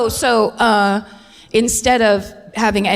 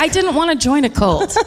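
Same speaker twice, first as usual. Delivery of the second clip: reluctant newcomer; 5 semitones higher than usual. Acted. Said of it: "He's like".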